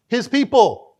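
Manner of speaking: forceful stage whisper; loud whisper. Real, not acted. Preacher answering his own question in an intense whisper. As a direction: hiss the answer to the congregation.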